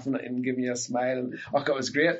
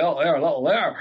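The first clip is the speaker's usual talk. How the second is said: mock swooning girl; 3 semitones higher, 4 dB louder than usual. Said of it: "young girls felt".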